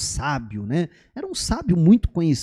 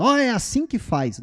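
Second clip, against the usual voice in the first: apontando de longe; 7 semitones higher than usual. Shown as a demonstration. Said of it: "Não, não, ó".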